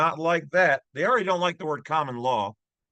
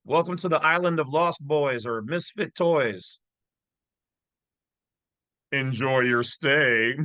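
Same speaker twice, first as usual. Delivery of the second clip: mustache twirling villain. Acted. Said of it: "That's my evil villain laugh".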